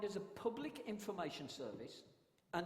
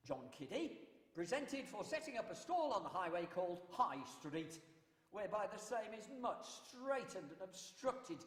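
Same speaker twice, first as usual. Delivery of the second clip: town crier. Shown as a demonstration. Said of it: "That was a court announcement".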